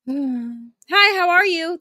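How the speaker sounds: lightly sing-song phone hello; mild phone voice; phone greeting. Retold or imitated. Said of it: "supposed to greet them like, on the phone".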